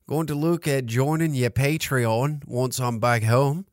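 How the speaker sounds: put-on Aussie accent. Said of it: "doing a good Australian accent".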